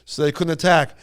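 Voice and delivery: a mildly voiced polite questioner; lightly put-on courteous asker; polite retold question. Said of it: "Al asked this old man".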